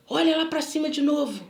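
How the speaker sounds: firm imitated order; acted, insistent command; retold command. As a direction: order someone as the stranger did. Retold stranger giving orders.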